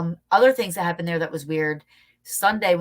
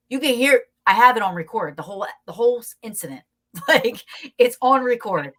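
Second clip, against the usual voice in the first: ordinary talk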